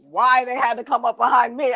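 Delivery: ordinary talk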